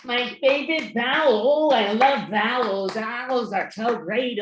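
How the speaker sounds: put-on a giddy little New Year baby. Baby New Year gushes to the host about vowels.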